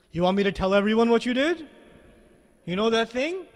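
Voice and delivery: a hint of a menacing king hinting at a secret; intimidating. Pharaoh trying to make Musa nervous, lightly menacing. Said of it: "he's intimidating Musa alayhi salam".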